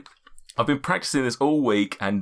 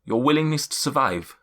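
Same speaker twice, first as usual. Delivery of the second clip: mystic figure's voice. Acted. Seer addressing each adventurer in turn, solemn. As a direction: speak like an ancient seer.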